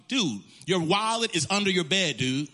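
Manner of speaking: a hint of laid-back buddy voice; casual Holy Spirit. The Holy Spirit talking to him, lightly voiced casual buddy. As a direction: toss off dude like a friend. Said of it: "That's how the Holy Spirit talks to me".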